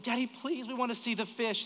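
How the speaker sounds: a light imitation of kids pleading. Kids asking dad to see the fish tank, lightly imitated pleading. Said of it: "They said".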